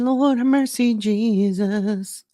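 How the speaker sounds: high, loud churchy cry of disbelief; loud sing-song plea to Jesus; exasperated wail. Real, not acted. Exasperated reaction to the debate.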